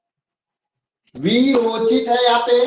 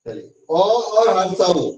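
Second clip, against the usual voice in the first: slow teaching; slower than usual. Shown as a demonstration. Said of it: "अ के साथ क्या जुटेगा?".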